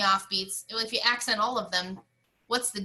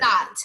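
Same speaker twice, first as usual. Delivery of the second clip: "Dot" said firm and detached; a loud, separated "Dot"; separated note; 7 dB louder than usual. Shown as a demonstration. Teacher showing how the quarter notes go, separated "Dot". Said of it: "They're separated".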